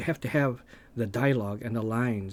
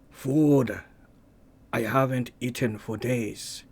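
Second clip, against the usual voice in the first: lightly voiced movie quote; 3 dB louder, slower than usual. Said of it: "take a look at Conan".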